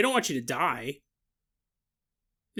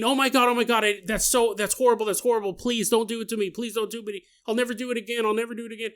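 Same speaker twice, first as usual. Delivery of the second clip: begging; 4 semitones higher, much faster than usual. Retold or imitated. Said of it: "she starts begging".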